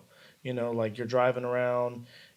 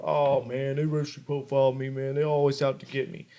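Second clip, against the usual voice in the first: mock complaining. Imitating buddies who got caught, mildly mock complaining. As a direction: imitate a lightly aggrieved moan. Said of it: "I'll hear 'em complaining about".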